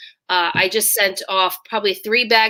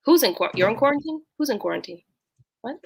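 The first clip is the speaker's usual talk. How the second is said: surprised; 3 semitones higher, 3 dB quieter, faster than usual. Real, not acted. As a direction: caught off guard. Shocked friend might be quarantined.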